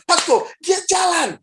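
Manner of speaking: high, slow, astonished cry; amazed. Retold or imitated. Sister telling the pastor he walks, high amazed cry. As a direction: announce the miracle in disbelief. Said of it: "kakaknya bilang".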